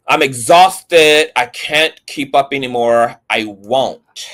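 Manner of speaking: drawn-out, hammed-up exhausted sigh; mocking a worn-out text; mock weary plea. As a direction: overplay the tired girlfriend. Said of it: "She says".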